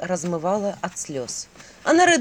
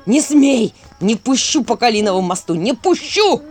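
angry shout; 5 dB louder than usual. Acted. Character shouting in fury.

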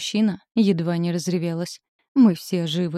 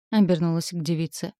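plain reading voice

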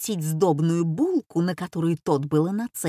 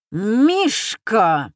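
shout; 2 semitones higher, 4 dB louder than usual. A narrator's reading. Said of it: "закричала американка".

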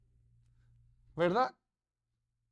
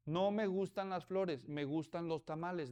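firm request; 4 dB quieter than usual. Retold or imitated. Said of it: "dijo aquella".

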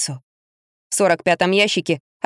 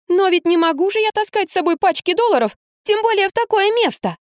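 much higher, plaintive protest; protesting heroine; 12 semitones higher than usual. A narrator's reading. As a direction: plead your case, higher.

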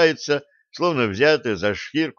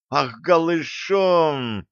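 slow jealous outrage; 5 semitones higher, much slower than usual. Acted. Stessi jealous outburst.

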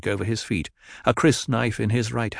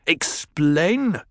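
a scornful, higher "Explain?"; sneering; 7 semitones higher than usual. Acted. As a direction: spit the word back with contempt. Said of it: "Jamis sneered".

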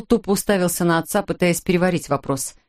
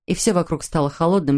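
ordinary delivery

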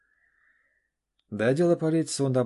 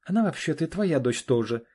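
огрызается; 6 semitones higher, 6 dB louder than usual. Acted. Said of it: "огрызнулась Наташа".

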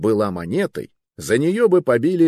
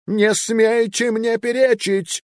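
very high, loud, slow outburst; furious cry; 14 semitones higher, 4 dB louder, slower than usual. Acted. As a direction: shout him down. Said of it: "вскрикнул он".

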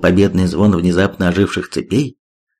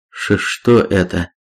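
terrified pleading hostage; 2 semitones lower, slower than usual. A narrator's reading. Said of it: "срывающимся голосом прошептал".

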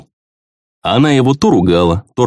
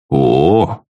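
admiring drawn-out oh; 4 semitones lower than usual. Acted. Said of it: "восхищённо протянул я".

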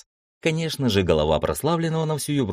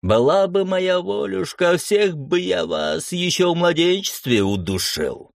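menacing threat; 11 semitones higher, 4 dB louder, slower than usual. Acted. Bandit gloats about killing.

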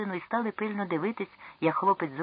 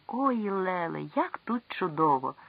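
bright, higher call of delight; cheerful shout; 3 semitones higher, slower than usual. Acted. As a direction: call out happily from below. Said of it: "крикнув весело звідтіль юнак".

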